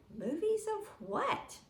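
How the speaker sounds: mother's pitch jumps high, baffled; high, baffled mother asking what; puzzled question. A narrator's reading. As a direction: toss it back in disbelief.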